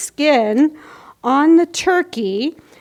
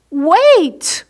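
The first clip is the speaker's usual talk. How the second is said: bear's sudden wait; 5 semitones higher, 5 dB louder than usual. Acted. Bear interrupts friends.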